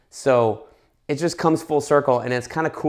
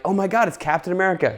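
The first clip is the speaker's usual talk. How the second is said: higher, rushed fan reaction; retold excited gasp; 6 semitones higher, faster than usual. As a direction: lightly re-enact an amazed moviegoer. Retold audience reaction to cameo.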